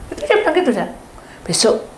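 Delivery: ordinary talk, nothing marked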